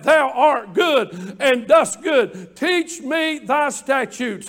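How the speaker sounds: slow, emphatic psalm read, opening with a shout; slow fervent scripture reading. Acted. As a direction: proclaim the verse slowly and fervently. Preacher reading psalm with fervour.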